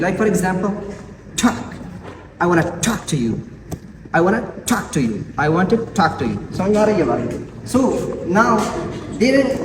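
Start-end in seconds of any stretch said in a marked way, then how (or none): 1.4-1.7 "talk" with a puff of air on the T; aspirated T. Shown as a demonstration. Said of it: "so it should be aspirated". 2.4-6.5 "talk" opening with a puffed T; aspirated T. Shown as a demonstration. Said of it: "so it should be aspirated".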